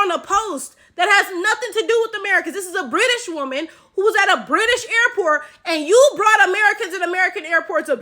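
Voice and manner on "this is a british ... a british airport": ordinary talk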